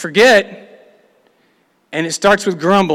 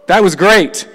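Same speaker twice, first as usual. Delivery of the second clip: playful imitation of people cheering after the sea closed; relieved whoop; 3 semitones higher, 5 dB louder, slower than usual. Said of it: "would you not go".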